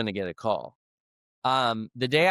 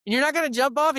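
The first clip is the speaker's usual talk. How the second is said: very high, louder mock outrage at a friend; exasperated disbelief; 13 semitones higher, 3 dB louder than usual. Urging a scared friend at the tower top, incredulous. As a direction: squeal out are you kidding me. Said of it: "I'm like".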